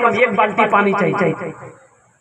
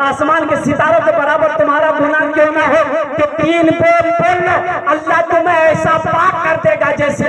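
building sermon; 3 semitones higher than usual. Acted. Preacher builds a rising list.

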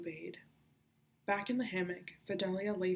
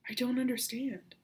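indignant; 5 semitones higher, 4 dB louder than usual. Acted. Fidelia confronts Merrick angrily.

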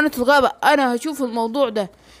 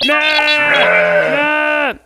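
a short sheep-like baa; sheep bleat; much slower than usual. Acted. The sheep bleats at the farmer, a mild baa. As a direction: bleat like a lamb.

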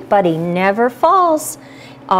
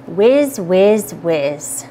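fading away; 6 semitones lower, much slower than usual. Acted. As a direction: let it fade out. Rhyme repeats, fading out.

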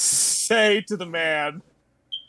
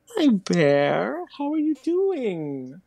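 cooing at bear; 7 semitones higher, 3 dB louder, much slower than usual. Pretend.

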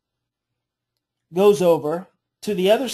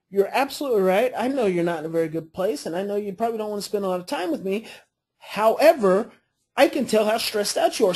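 non-threatening calm. Shown as a demonstration. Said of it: "See, completely non-threatening".

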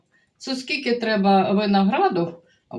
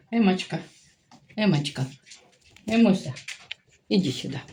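calling the dog; faster than usual. Real, not acted. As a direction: coax the little dog to come. (ласкаво кличе собачку)

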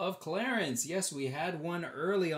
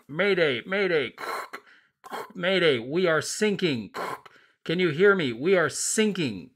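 mock mayday call; 5 semitones higher, 8 dB louder than usual. Americans calling mayday in story.

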